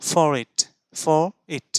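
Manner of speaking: for it said as one word with the r linked into it; linking r. Shown as a demonstration. Teacher showing students the linking r in for it. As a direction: join for it as "fo-rit". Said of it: "আমি বলবো".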